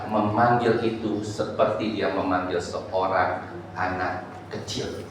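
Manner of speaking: low, soft and slow; hushed, unhurried voice; gentle telling. Shown as a demonstration. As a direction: ease down tenderly, letting it fade. Gentle calling of a child described.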